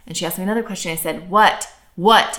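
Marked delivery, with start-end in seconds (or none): 1.3-2.4 louder, exasperated parent reply; louder mock-irritated "What?"; more incessant. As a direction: retell mounting impatience on each WHAT. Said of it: "And it got more and more".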